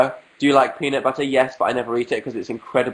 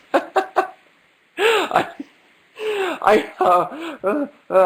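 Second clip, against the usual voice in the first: high flustered stammer; much slower than usual. Real, not acted. Flustered after laughing.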